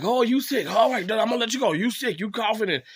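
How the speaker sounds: hurried dad cutting the call short; imitating dad brushing off. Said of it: "He's like".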